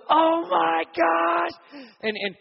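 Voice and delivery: very high, loud, drawn-out gasp of amazement; high squealed "Oh my gosh"; astonished shout. Retold or imitated. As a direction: burst out in shocked disbelief. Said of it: "jumps up and goes".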